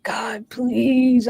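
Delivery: breathy whisper of a desperate prayer; whispered plea. Retold or imitated. Begging God from the living room floor, whispered. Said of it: "begging God to kill me".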